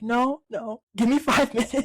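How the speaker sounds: a mom insisting she's coming too; quick laughing no, no; urgent mom. Retold or imitated. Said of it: "the mom's like".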